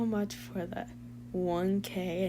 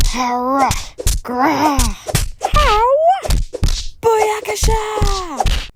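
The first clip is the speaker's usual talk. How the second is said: loud, rowdy cartoon turtles mid-fight; brash teen heroes trading quips, loud; turtle comic voiceover; 3 semitones higher, 9 dB louder than usual. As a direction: shout the battle cries like a cartoon hero.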